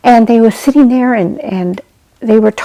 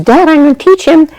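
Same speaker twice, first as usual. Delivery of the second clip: put-on higher, insistent child voice; eager boy; 8 semitones higher, 3 dB louder, faster than usual. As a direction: promise Dad eagerly. Boy insists to his father.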